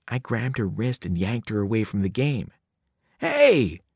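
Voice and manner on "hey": high, louder protest; mild narrated scream. A narrator's reading. Girl yanked from game, sharp high cry. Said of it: "she screamed".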